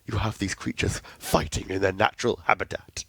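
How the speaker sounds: lightly done nature documentary narrator; a hint of a wildlife film narrator; David Attenborough voice. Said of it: "yes, you can do the voice".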